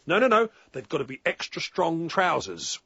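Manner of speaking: imitated upper-class English customer insisting; mock upper-class fussy correction. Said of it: "in his best upper-class voice".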